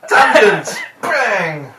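high, loud playful shout; loud silly exclamation. Real, not acted.

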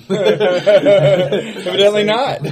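real laughter. Real, not acted. Player laughs at own answer.

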